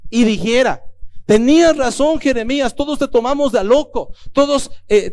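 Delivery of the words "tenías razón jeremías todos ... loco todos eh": owning up to the prophet, hands up, pleading; pleading confession. Retold or imitated. Preacher voicing the people admitting Jeremiah was right, pleading.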